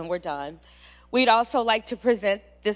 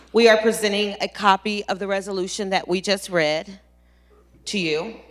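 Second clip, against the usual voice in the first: louder, steadier restart; composed restart; 7 dB louder than usual. Real, not acted. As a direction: pull yourself together and restart. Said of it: "I'm sorry".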